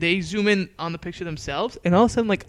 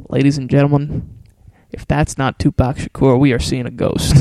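nerdy voice; 4 semitones lower, 5 dB louder than usual. Retold or imitated. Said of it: "He had a nerdy voice".

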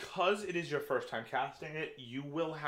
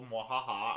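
mock evil laugh; 2 semitones lower, slower than usual. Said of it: "I am an evil D M".

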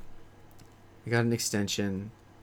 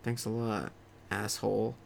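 muttered sarcastic reply; 6 dB quieter than usual. Retold or imitated. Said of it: "I was like".

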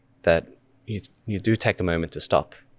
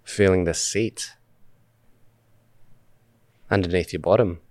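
unhurried meditation guide, long pauses between phrases; measured guided-meditation delivery with spacious silences. Acted. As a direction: lead listeners gently through breath awareness, phrase by phrase. Leads a meditation.

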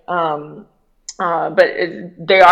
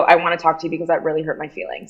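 slightly lowered, quick code-switched voice; brisk, a touch lower and restrained; faster than usual. Shown as a demonstration. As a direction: drop a little into a measured confronting voice. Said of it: "And it's lower".

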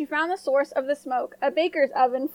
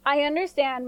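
kind. Acted. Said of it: "said kindly".

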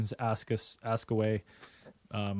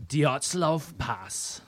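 Russian accent; much slower than usual. Shown as a demonstration. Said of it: "It's in an accent".

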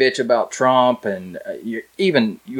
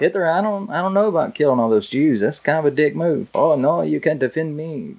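put-on failed German accent; 5 semitones higher than usual. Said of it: "That didn't sound like a German accent".

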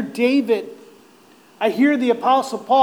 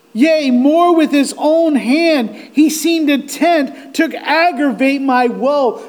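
anguished, raised-voice reading; cry of despair; 4 semitones higher, 4 dB louder than usual. Acted. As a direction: lament aloud, stretching the words. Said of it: "hear the cry and despair in his voice".

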